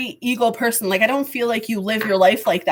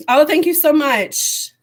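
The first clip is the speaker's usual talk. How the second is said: normal talking voice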